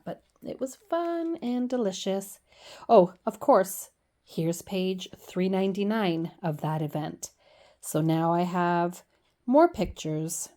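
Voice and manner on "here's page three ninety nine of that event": hushed throwaway aside; a quick whispered aside. Real, not acted. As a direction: whisper it as a joke to the viewer.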